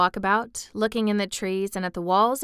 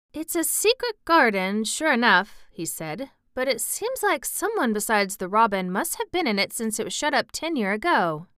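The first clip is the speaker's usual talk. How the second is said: lightly voiced Yorkshire boy, pondering; puzzled country lad; 3 semitones higher than usual. Boy wondering who has been in, puzzled.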